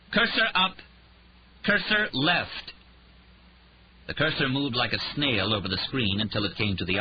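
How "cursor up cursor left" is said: panicked commands. A narrator's reading. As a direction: shout at the screen in panic.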